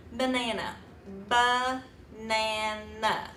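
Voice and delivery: banana stretched out very slowly; drawn-out demo. Shown as a demonstration. Teacher shows the class how to stretch banana. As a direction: say banana slowly, pulling it apart. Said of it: "segment them or separate them".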